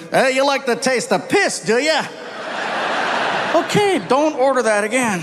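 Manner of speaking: high, mocking Aussie bartender; gruff Aussie bartender. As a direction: scold him like a blunt Aussie barman. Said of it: "Bartender looked at me".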